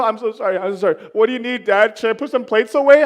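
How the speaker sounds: put-on eager high apologetic child; a hint of a little girl pleading to help; lightly voiced daughter. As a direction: daughter offering to help dad. Voicing daughter eager to please.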